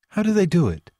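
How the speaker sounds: high, incredulous question; a touch of disbelief. A narrator's reading. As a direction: ask it as if you can't believe it. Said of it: "asked Jude in disbelief".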